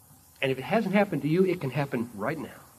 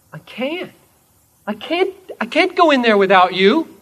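higher, pleading protest; pleading fear; 10 semitones higher, 11 dB louder than usual. Acted. The believer begging Jesus at the cave, higher and pleading. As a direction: beg not to go in alone.

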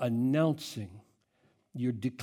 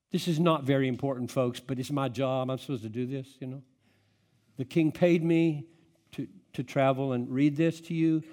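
indifferent. Acted.

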